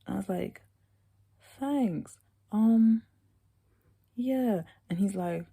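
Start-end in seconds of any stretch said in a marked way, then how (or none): 1.6-4.6 awkward high thanks. Retold or imitated. Her awkward reply, high.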